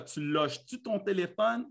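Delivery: softly nagging question in a Quebec accent. Shown as a demonstration. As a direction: demonstrate Québécois French, rising at the end. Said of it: "ça, c'est un bon accent québécois".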